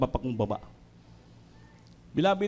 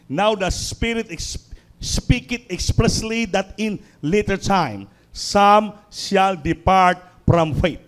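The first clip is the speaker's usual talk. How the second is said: slow scripture reading; much slower than usual. Acted. Preacher quoting scripture to the church, slow and weighty. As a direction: read each word slowly, weighty.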